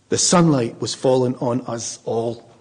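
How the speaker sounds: slow, savoured line. Shown as a demonstration. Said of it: "I always want to add to it".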